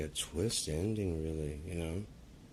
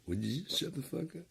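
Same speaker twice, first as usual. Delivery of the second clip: much higher, squeaky mock demand; squeaky mock yell; 12 semitones higher than usual. Streamer squeaking at the chat in mock annoyance. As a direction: squeak it out in jest.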